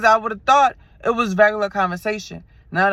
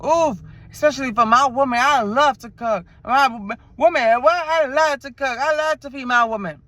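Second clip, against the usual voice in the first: higher, louder boastful man; bragging suitor; 5 semitones higher, 3 dB louder than usual. Retold or imitated. Driver bragging about cooking for his woman, higher boastful voice. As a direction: show off like a smooth suitor. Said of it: "Yo, oh, dread meals".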